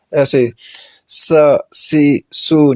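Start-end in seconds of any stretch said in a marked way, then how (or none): 1.7-2.7 سی and سو slow with a sharp hiss; teacher demonstrating whistling letters; whistled s demo. Shown as a demonstration. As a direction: stretch the hiss on سی سو. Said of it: "سیٹی کے ساتھ پڑھیں گے".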